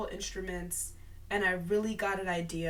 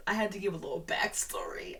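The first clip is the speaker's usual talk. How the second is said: whisper. Real, not acted. Whispered aside while reading notes.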